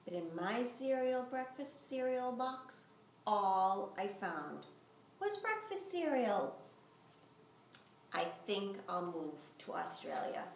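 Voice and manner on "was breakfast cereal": disappointed. A narrator's reading. Disappointed punchline.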